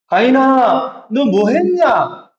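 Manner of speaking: slow God's call. Retold or imitated. God questioning Cain slowly.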